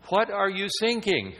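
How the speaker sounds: high, loud mock German accent. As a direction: play the naive German radio operator. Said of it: "with a clear German accent says".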